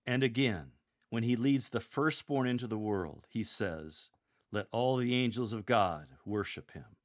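emphatic, proclaimed punchline; wonder and sovereignty. Shown as a demonstration. Lector closing on Christ the King, with wonder. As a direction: land it as a sovereign declaration, with wonder. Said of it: "with a sense of wonder".

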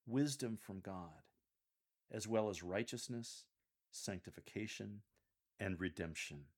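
measured scripture reading with pauses between phrases; serious. Shown as a demonstration. Coach models Paul's next section for lectors, serious. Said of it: "Continue a serious tone for this segment".

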